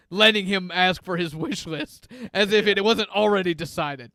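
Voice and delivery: lightly voiced mall Santa, a bit scratchy. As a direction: play a grumpy smoker Santa, only slightly put on. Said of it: "It's a very scratchy voice Santa".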